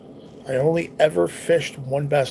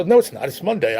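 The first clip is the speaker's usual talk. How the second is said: retold adamant denial; 3 semitones higher, 4 dB louder than usual. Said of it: "I was, like, fucking adamant about it".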